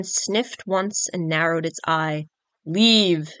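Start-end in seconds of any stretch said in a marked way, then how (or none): 2.7-3.3 dragon bellowing, deep and crackling. Acted. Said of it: "it bellowed in a deep, crackling voice".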